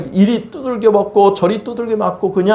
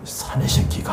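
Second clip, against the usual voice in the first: father scolding; 8 dB quieter than usual. Retold or imitated. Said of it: "아버지가 보면은 난리치거든요".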